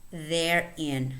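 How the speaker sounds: single words held out, evenly spaced with long pauses; listen-and-repeat word reading. Shown as a demonstration. Teacher reading voiced th words for learners, careful and separated. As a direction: read each word carefully as a model. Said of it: "let's read the words".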